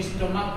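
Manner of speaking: स्टमक, its CH sounded as क. Shown as a demonstration. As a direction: say स्टमक with a hard K at the end. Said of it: "सीएच का pronunciation क होगा".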